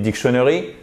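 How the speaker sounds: dictionary mis-stressed, off the first syllable, rising; wrong stress. Shown as a demonstration. Teacher showing what nobody would understand, wrong stress. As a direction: say "dictionary" with a learner's misplaced accent. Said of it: "la personne, elle va dire, what".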